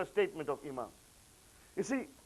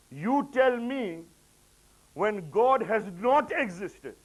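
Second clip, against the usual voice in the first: slow emphatic challenge; 4 semitones higher, 3 dB louder, slower than usual. Acted. Imam's retort to the questioner.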